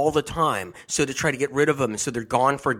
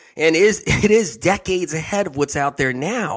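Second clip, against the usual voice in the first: giggly, higher and louder radio host voice. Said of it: "I'm kinda giggly today".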